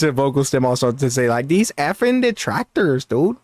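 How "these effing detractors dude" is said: lightly mimicked streamer catchphrase; imitated streamer cadence. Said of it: "I just have his cadence".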